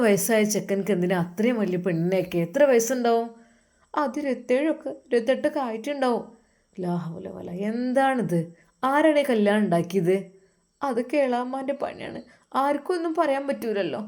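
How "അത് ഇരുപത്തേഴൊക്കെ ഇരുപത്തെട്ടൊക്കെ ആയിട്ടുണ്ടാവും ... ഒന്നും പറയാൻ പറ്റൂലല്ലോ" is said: resigned wife. Acted. Wife voiced.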